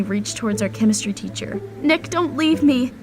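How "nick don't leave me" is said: high, drawn-out pleading; slow, needy, high-pitched appeal; desperate plea. Acted. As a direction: beg him to stay, voice lifted. Girl begs teacher not to leave.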